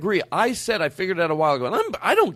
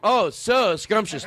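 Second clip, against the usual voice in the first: mock ad gush; 4 semitones higher, slower than usual. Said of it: "you have to act".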